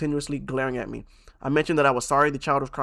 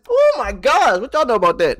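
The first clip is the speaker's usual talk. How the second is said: much higher and loud hype; hyped exclamation; 9 semitones higher, 8 dB louder than usual. Real, not acted. Streamer hyping chat after rapping, high and loud. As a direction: shout it out, proud of the verse.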